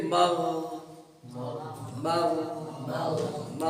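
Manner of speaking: ما with voice kept running; ما with continuous voicing; sustained ma. Shown as a demonstration. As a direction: hold the voice through each ما. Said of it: "آواز چل دے، آواز چلتی رہے".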